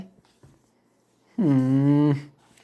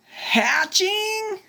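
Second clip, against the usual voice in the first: surprised question; 14 semitones higher than usual. Acted.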